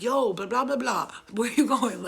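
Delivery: loud retold call; calling after her. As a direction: call out to someone running off. Calling after fleeing girlfriend.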